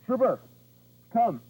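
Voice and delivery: high, loud call across the yard; loud call to the dog. Real, not acted. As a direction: call the dog home loudly. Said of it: "call him as loud as you feel comfortable".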